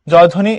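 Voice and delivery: "জয়ধ্বনি" as joy-oddhoni; সঠিক উচ্চারণ. Shown as a demonstration. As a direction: double the dh in "জয়ধ্বনি". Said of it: "এটার উচ্চারণ হবে". ("জয়ধ্বনি"-তে দ্ধ জোর দিয়ে)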